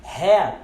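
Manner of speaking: "hair" as "hat" with no audible T; silent final T. Shown as a demonstration. Teacher models the word for boné, "hair" with swallowed T. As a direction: stop "hair" on an open "heh" vowel, no R. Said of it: "silenciamos o T quando a palavra termina".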